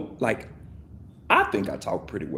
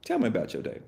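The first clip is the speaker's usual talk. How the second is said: softer, inviting ask; better opener; 5 dB quieter, faster than usual. Shown as a demonstration. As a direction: invite them to open up. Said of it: "You say".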